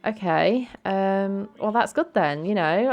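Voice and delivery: mildly taken aback, pitch lifted a little; a touch of hesitant surprise; quite surprised. Acted. Nina hears Brandy is unbothered, mildly surprised. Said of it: "like, quite surprised".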